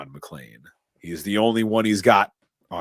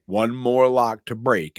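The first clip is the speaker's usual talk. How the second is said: Theo; 5 semitones higher, 5 dB louder, slower than usual. Retold or imitated. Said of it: "Theo tells him".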